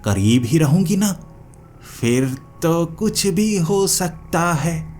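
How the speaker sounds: slow, servile witch voice with a hidden threat; bow to the master, then warn; lightly voiced witch turning sly and ominous; submissive witch.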